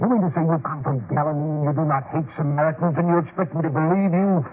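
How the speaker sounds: you won't fool me, make it bite; angry disbelief. Acted. Samaritan elder to the Galileans, scornful angry challenge. Townsman confronts Galilean travelers.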